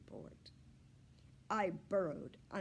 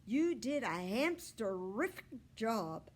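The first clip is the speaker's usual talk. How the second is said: higher, louder, slow squeaky voice; hamster squeak; 5 semitones higher, 8 dB louder than usual. Acted. Humphrey praising Richie, squeaky voice. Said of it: "I squeaked to Richie".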